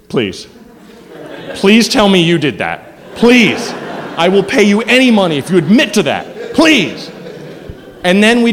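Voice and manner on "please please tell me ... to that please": begging. Retold or imitated. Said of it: "we literally went from".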